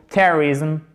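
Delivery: "Terrorism" as TER-rizm, middle vowel barely there; reduced middle vowel. Shown as a demonstration. Teacher illustrating the weak vowel, reduced "Terrorism". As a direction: swallow the O of "Terrorism", short I after. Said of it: "prononcée comme un E très, très atténué".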